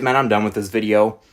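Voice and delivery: winded after a long rant; breathless and worn out; out of breath. Real, not acted. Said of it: "I'm out of breath".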